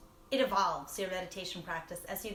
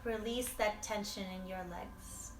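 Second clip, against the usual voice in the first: guided meditation; 2 semitones higher than usual. Real, not acted. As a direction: guide them through inhale and release, leaving pauses. Leads a body scan.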